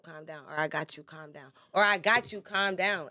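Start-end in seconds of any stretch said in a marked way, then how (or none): 0.6-1.5 gentle reassurance. Shown as a demonstration. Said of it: "It's all about your delivery". 1.8-3.1 louder, firmer calm down. Shown as a demonstration. Man telling his woman firmly: louder insistence. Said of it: "It's all about your delivery".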